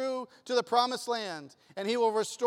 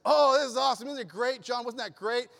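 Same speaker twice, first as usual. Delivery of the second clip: excited friend; 4 semitones higher, 5 dB louder than usual. Retold or imitated. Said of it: "my friend is like".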